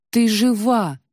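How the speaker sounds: joyful exclamation. A narrator's reading. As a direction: cry out in tearful relief. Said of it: "воскликнула Варвара". (радостный возглас)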